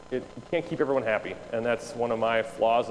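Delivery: ordinary talk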